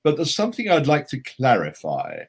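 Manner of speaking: high, loud, sweeping grand pronouncement; Christopher Lee. Retold or imitated. Actor phoning the author with a correction, mock imperious. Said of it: "He said".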